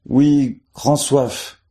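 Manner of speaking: high, thirsty reply from the well; the hidden voice in the well answering a joker, high and thirsty. A narrator's reading. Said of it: "répondit une voix dans le puits".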